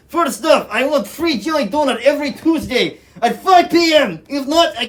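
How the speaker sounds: high, loud demanding voice; mock ransom demand voice. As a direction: read out demands like a hostage taker.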